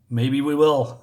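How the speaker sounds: acted taunt ending in a laugh; mock taunting laugh. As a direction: finish the guard's line with a put-on chuckle. Guard's taunt ends in laugh.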